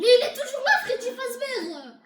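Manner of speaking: high, loud, stretched-out cry; alarmed shout. Pretend. Player sees Freddy still there, high alarmed yell. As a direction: yell the warning and drag out the name.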